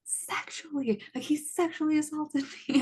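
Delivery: high-pitched outraged retelling; incredulous, mad outburst re-enacted; mad, indignant retort. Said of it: "I was, like, so mad".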